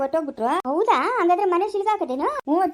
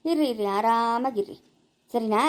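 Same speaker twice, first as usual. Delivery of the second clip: slow, lower, mocking sarcasm; sarcastic; 4 semitones lower, slower than usual. Wife taunts her in-laws, slow and sarcastic. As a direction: drag out the taunt.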